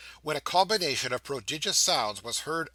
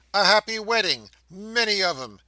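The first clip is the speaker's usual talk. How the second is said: much higher and louder festive shouting; screaming crowd; 7 semitones higher, 7 dB louder than usual. A narrator's reading. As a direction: neighbours bursting in with cheers.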